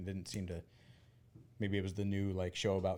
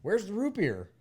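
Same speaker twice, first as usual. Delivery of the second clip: light eager mimic of the lady, raised pitch and louder; eager question; 9 semitones higher, 5 dB louder than usual. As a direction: ask for the root beer like a hopeful fan. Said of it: "And she went".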